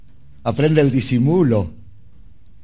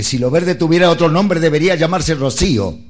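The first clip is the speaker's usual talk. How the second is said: angry reply; 3 semitones higher, 3 dB louder than usual. Retold or imitated. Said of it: "con toda la bronca del mundo".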